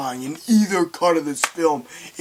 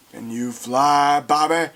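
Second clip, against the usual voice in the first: menacing taunt; 3 semitones lower, slower than usual. Retold or imitated. Villain taunting before throwing him.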